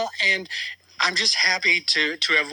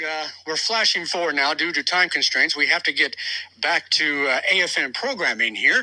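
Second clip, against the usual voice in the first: Nance-like anchor; 4 semitones lower than usual. Pretend. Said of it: "that was very Nance-like".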